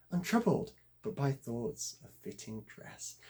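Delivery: measured recital with lifted line openings; verse reading. Acted. Reader describing idleness from the allegory to viewers, recited with emphasis. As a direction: recite it as narrative verse, stresses pushed. Reads medieval verse translation aloud.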